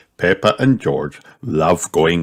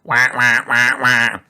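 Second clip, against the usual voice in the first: put-on higher, repeated child's wah-wah; mock wailing shout; 5 semitones higher than usual. A narrator's reading. Scared little rabbit feeding ducks, mock wail. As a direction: wail lightly in little bursts. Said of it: "shouts Richard".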